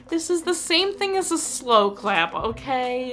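knowing exclamation. Retold or imitated. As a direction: call it out like an obvious trick. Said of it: "I was like".

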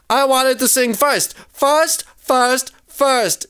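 high, insistent storybook yelling; acted yell. A narrator's reading. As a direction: insist on it, punching each repeat. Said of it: "yelled Maymay".

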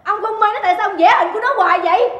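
high, loud challenge; jealous anger. Acted. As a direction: demand an answer in outrage. Wife keeps accusing husband.

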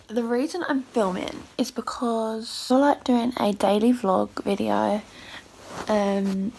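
just-woke-up croaky voice; rusty unused voice after sleep; morning voice. Real, not acted. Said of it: "I sound so morning-y".

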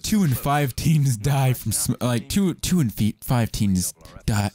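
slow, solemn ad read; deadpan warning read slowly; mock PSA voice. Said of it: "Let's do a smoking ad".

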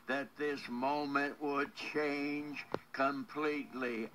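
earnest, measured prayer voice. Acted. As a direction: pray over her with steady fervour. Leads a prayer for caller.

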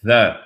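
"the" with a short weak vowel; unstressed schwa in "the"; the as "thuh". Shown as a demonstration. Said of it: "on devrait dire the".

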